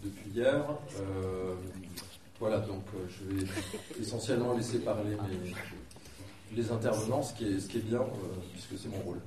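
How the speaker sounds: hoarse, croaky voice from the flu. Real, not acted. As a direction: speak through a sore, hoarse throat. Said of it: "cette horrible voix de, de canard".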